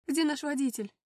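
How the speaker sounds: loud, high panicked cry. Acted. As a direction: cry out fighting a panic attack. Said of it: "вскрикнула я". (вскрикнуть в панике)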